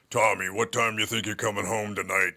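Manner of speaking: lightly voiced tough mother; mother's voice, only slightly put on; impression of his mother. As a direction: do a hint of your mother calling you to account. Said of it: "one quick impression of my mother".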